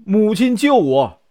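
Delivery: a storyteller's mild mock shout of "help me, mother"; desperate cry for help. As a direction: call out to mother in panic, held back from a full scream. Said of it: "大喊".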